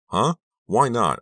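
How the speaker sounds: high, loud angry demand. A narrator's reading. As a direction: demand an answer angrily. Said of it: "I demanded angrily".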